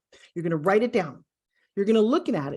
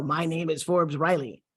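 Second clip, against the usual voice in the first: slow, lower "My name is Forbes Riley" with a tiny pause before the name; deliberate "Forbes Riley", lower and unhurried; pause within name; 4 semitones lower than usual. Shown as a demonstration. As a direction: slowly set "Forbes Riley" apart with a little beat. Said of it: "there's always that little tiny pause".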